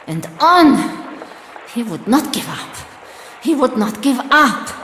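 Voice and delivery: rising anger. Acted. Soldier fixating on his enemy, rising anger.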